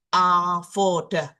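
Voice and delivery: "Avoda" said slowly, falling at the end; slow model word. Shown as a demonstration. Teacher models the word again, slow and clear. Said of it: "Misalkan lagi".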